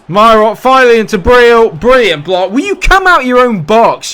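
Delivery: loud, high commentary boiling into complaint; exasperated shouting. Real, not acted. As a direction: yell at the opponents in real frustration. Exasperated shout at defending opponents.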